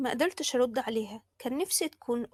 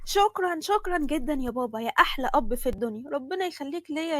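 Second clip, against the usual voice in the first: overjoyed thanks; 3 semitones higher than usual. Acted. Daughter thanking father for the course, overjoyed.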